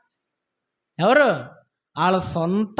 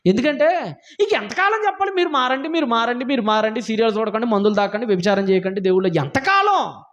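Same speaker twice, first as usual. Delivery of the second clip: fed up with endlessly repeating the same admonitions; exasperated. Real, not acted. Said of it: "నాకు అప్పుడప్పుడు చిరాకు వస్తుంది".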